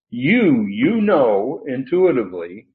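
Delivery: "You" set apart and punched, then repeated; emphatic YOU. Shown as a demonstration. Teacher explaining Peter's emphatic pronoun, emphatic YOU. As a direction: punch "You" before going on. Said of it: "because he uses an emphatic pronoun".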